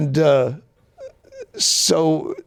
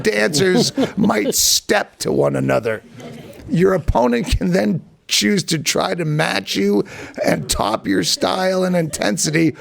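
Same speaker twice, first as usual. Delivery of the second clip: reading his letter aloud. Shown as a demonstration. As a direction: read out his own pompous reply with a straight face. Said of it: "So I wrote back to him".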